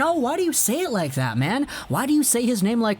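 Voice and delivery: put-on indignant questioning; mock ballistic commenters. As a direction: imitate fans complaining in protest. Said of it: "people in the comments just went ballistic".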